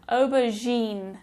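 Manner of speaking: aubergine said slowly with a soft French "zh" for the G; French-style soft G. Shown as a demonstration. Teacher showing learners the French sound, aubergine with soft G. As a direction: stretch aubergine, softening the G to "zh". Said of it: "tell by the pronunciation as well".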